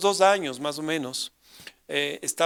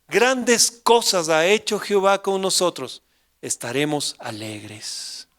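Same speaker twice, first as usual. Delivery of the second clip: scripture reading; 5 dB louder, slower than usual. Acted. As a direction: read the psalm out slowly and solemnly. Lee el salmo en voz alta. (lectura solemne y pausada del salmo)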